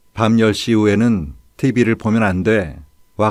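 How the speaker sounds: ordinary delivery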